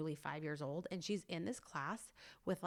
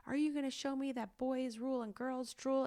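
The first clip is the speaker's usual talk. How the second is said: high-pitched mock coach challenge; goading karate teacher; 8 semitones higher, 4 dB louder than usual. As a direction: taunt the pupil to fire them up. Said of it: "trying to encourage her".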